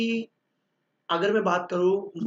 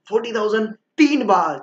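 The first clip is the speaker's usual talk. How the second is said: louder, higher final call of the hammer; auctioneer closing call; 4 semitones higher, 10 dB louder than usual. Retold or imitated. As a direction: close the sale like an auctioneer. Auctioneer closes the sale.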